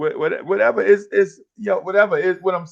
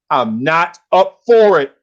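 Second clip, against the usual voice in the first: mildly raised, slow teacher's refusal; exasperated teacher, only a little louder; retold yelling; 2 semitones higher, 5 dB louder, slower than usual. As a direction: put slow, firm weight on a retold refusal. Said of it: "you yelling at Uncle Freezy".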